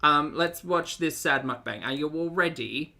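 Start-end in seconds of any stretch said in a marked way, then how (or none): 1.9-3.0 a hint of Cockney accent; lightly Cockney-tinged question; slip into Cockney. Real, not acted. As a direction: let a little Cockney creep in. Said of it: "Don't know why I got Cockney there".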